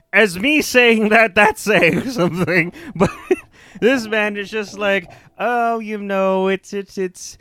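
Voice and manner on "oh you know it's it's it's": uncontrolled volume. Retold or imitated. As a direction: imitate a villain whose volume keeps creeping up. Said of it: "could not control the volume of his voice".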